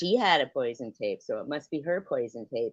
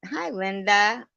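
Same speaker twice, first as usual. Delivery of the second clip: imitating Brian; 7 semitones higher, 5 dB louder, slower than usual.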